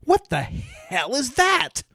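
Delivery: high, slow, loud cry of disgust; loud alarmed shout. Retold or imitated. Stranger shouting at the bird in a loud voice. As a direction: bellow it like you saw a monster. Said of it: "said in a loud voice".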